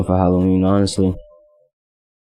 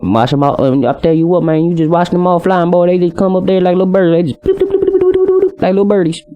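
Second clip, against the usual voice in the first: high rambling country voice with bird bloops; country accent; 7 semitones higher than usual. Shown as a demonstration. Describing ladies flocking like birds, high country accent. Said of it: "talking in a country accent".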